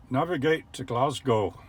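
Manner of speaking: slow, deliberate mock Scottish accent; a Scottish accent, spoken slowly to a machine. Shown as a demonstration. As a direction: put on a Scottish accent for the voice command. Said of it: "my impression of a Scottish accent".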